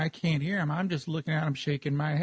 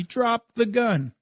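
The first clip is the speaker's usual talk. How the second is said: drawn-out shouted order, higher pitch; slow retold yell; 6 semitones higher, slower than usual. Cop yelling at me across the road, slow mock yell. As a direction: spell each word out like a command. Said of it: "he's yelling at me".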